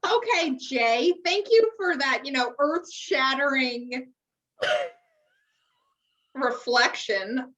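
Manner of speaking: sarcastic thanks. Real, not acted. Mocking the pompous quote.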